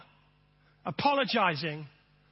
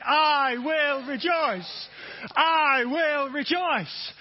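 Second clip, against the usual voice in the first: slow, louder, fuller chant; preacher urging more effort from the room; 5 semitones higher, 4 dB louder, much slower than usual. Shown as a demonstration. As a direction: push it out with more force. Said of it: "More effort".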